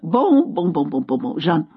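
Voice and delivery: lightly amused French "bon, bon"; chuckling old Frenchman, French accent. Retold or imitated. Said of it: "He laughed".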